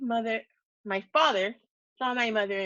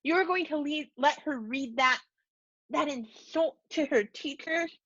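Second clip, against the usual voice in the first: indignant accusation; 5 semitones higher than usual. A narrator's reading. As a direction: demand it in disbelief. Father accuses mother.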